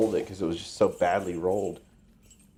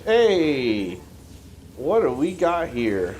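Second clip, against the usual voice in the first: excited; 6 semitones higher, 4 dB louder, much slower than usual. Real, not acted. Greeting a boss.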